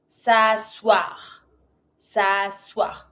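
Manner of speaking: "s'asseoir" as "sa-swar", E left silent; careful, low "s'asseoir" without the E. Shown as a demonstration. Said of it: "Don't pronounce the E".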